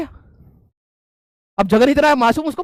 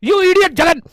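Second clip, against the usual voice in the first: higher, slow mock-furious English threat; mock angry professor; 5 semitones higher, much slower than usual. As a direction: ham up the furious HOD. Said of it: "कहते". (गुस्साए professor की नकल, ऊँची धीमी आवाज़)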